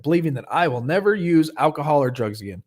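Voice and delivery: "I will never" said with emphasis; emphasized belief. Shown as a demonstration. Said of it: "I wanna emphasize on this one".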